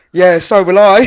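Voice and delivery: laughing through a cheeky reply. Retold or imitated. Answering the Palace fan while laughing. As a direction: giggle out the comeback.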